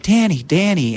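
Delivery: lightly voiced calm friend; J D's calming voice. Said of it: "that calming voice".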